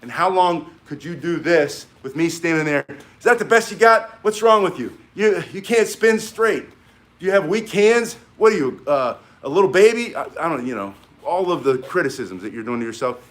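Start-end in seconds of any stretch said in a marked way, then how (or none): 3.2-10.2 high, loud taunting yell at a struggling student; louder and higher, belittling a learner who can't spin straight; mock drill-sergeant yell. Shown as a demonstration. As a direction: bark insults like a harsh coach. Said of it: "If I'm standing there yelling at you like that".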